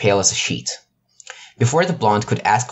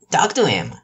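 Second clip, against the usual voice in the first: whisper; 6 semitones higher than usual. Acted. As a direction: breathe it gently over his shoulder. Husband suggests from behind.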